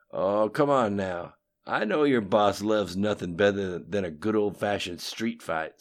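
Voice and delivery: lightly voiced cocky politician; Bill's voice. A narrator's reading. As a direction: brag about old schemes, loud. Bill coaxing Lim.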